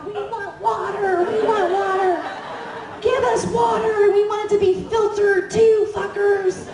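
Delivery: high, slow protest shout; rowdy demand. Retold or imitated. Detainees demanding water from agents, rowdy high shouting. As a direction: shout it like a mock protest chant.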